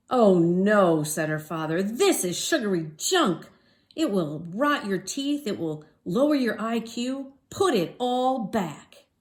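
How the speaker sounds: father scolding about sugary junk; stern father. Acted. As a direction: lay down the law to a kid.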